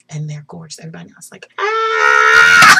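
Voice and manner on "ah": imitated crowd scream; audience scream. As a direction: let out a crowd's excited "Ah!".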